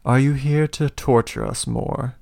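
a lightly voiced frightened prisoner; cowering prisoner in the corner, lightly voiced, wary. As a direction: ask it from the corner, keeping away. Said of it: "she says".

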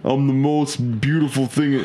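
a hint of a breathy Vin Diesel; lightly voiced tough action star; Vin Diesel impression. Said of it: "I don't think you're reading this like Vin Diesel would say it".

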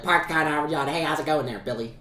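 fast Boston accent, "Park the car" with no r. Shown as a demonstration. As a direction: say "Park the car, have a job" quickly like a Boston local. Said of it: "you say real fast and you can start talking like them".

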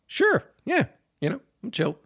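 high, breezy fake-casual answer; mock nonchalant. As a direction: play it cool and overconfident. His own cocky answer retold.

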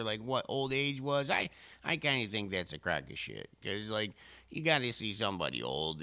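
very deep voice. Acted. Deep voice held for character.

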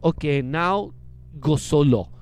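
put-on lightly French-accented instruction; imitated French director giving a cue; a touch of French accent. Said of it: "and he's French".

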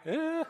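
small high-pitched pretend whimper; a little high mock cry. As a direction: squeak out a brief fake sob. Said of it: "if you ever see me start crying".

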